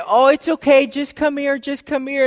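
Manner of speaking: lightly acted there-there reassurance; soothing parent. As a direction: imitate a father coaxing his crying child over. Voicing a father soothing crying child.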